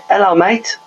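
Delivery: a hint of Polish accent, voice lifted high; Polish geezer. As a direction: mimic a Polish bloke's cheery greeting in a Polish accent. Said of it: "It's like Polish geezer".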